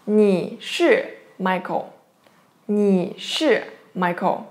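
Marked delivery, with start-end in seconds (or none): 0.0-1.9 each syllable slow and clear, leaning on 是; slow careful demo. Shown as a demonstration. Teacher to students, slowly modeling 你是Michael. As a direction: spell it out slowly for the class. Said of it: "How to say that?".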